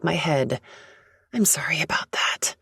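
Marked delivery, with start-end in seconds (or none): 1.3-2.6 whispering. Acted. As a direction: whisper it up to the ceiling. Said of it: "I whisper to the ceiling".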